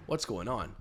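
put-on singsong, rising baby talk; doting on a daughter. Shown as a demonstration. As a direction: coo at the dog like a little princess. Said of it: "treat him like he's your daughter".

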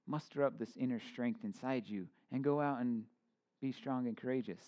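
self-help guru. Retold or imitated. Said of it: "this self-help guru God".

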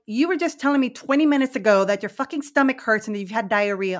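retold parental exasperation; mildly fed-up mom calling out her kid; exasperated parent. Mom retells scolding her kids.

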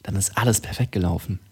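radio host voice, pushed from the front of the mouth. Pretend. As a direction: announce it like an old radio presenter. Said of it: "Und das ist meine Radiostimme".

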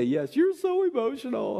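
high, playful teasing reply; mock sing-song parental teasing; teasing agreement. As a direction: tease her back in a singsong. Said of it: "And we'd say".

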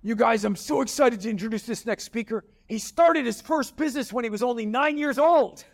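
booming excited host introduction; hyped stage intro. Retold or imitated. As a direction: introduce the speaker like a big showman. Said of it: "he goes".

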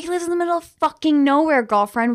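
incredulous rant. Retold or imitated. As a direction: pitch it up like you can't believe the guy. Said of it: "Also, I was like".

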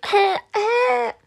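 laughing. Real, not acted.

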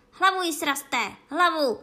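high, loud furious screech; ječení. A narrator's reading. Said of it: "a pak zajčela". (ječivý, hlasitý rozkaz)

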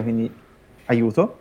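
fighting off a sneeze; words strained by a coming sneeze; holding back a sneeze. Real, not acted. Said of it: "scusate, devo starnutire".

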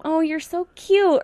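high, drawn-out patronizing coo; condescending, mocking imitation. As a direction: mimic them talking down to you. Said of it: "like very condescending".

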